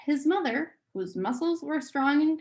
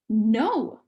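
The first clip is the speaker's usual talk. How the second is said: grimly; 4 dB louder than usual. Acted. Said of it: "Meg said grimly".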